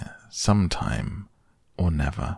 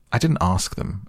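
offhand, lightly dismissive explanation; careless; 3 semitones higher than usual. Acted. Rabbit explains his uninvited relations, careless. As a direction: toss it off as no concern of yours. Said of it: "explained Rabbit carelessly".

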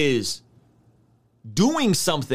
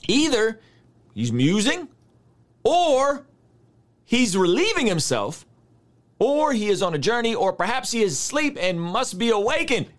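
mocking; 3 semitones higher than usual. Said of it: "Mocked them".

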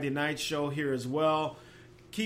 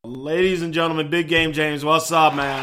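louder, fast announcer-style welcome; hyped caller intro; 7 dB louder than usual. Real, not acted. Host introduces Big Game James to listeners in a loud hyped voice. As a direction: pump up the crowd for the caller.

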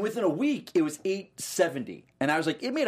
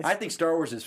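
troll voice; 2 semitones higher than usual. Acted. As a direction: plod it out like a dull troll. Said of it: "I like your troll voice".

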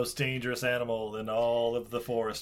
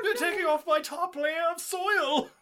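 whiny plate voice. Acted. Voicing plates being washed.

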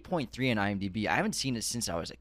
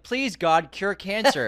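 laughing mock prayer; 7 semitones higher, 4 dB louder, slower than usual.

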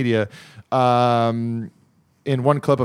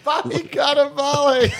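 high hammed-up Italian accent; mock Italian accent; 12 semitones higher than usual. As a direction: roll it out like a hammy Italian. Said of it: "only Italian thing I could think".

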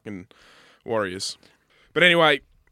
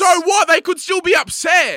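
much higher, louder comeback; heated retort; 14 semitones higher, 10 dB louder than usual. Real, not acted. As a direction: fire right back at him. Heated argument back.

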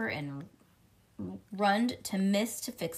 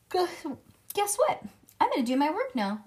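much higher, louder eager chatter; 8 semitones higher, 4 dB louder than usual. Acted. Junie B. trying to please the teacher, high and quick.

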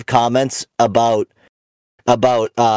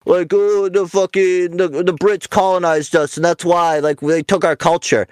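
mock whining Irish; 4 semitones higher than usual. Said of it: "all you guys were like".

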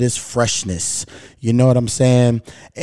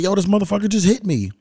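higher-pitched mock outburst; retold indignant surprise; 8 semitones higher than usual. Driver tells of being rear-ended, retold indignant surprise. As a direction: exclaim it in raised pitch, retelling the shock. Acted reaction to being hit.

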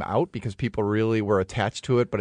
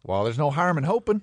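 high-pitched hammed-up hopefulness; amateur-dramatic optimism, pitched high; hopeful scene character; 6 semitones higher than usual. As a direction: offer a hope in a high, put-on stage voice. Acts the scene's hopeful figure.

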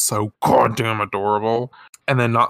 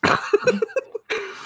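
high laugh. Real, not acted. Laughing at story.

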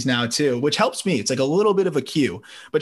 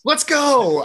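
excited cheer; 12 semitones higher, 4 dB louder than usual. Real, not acted. Guessed the jersey right, celebrating.

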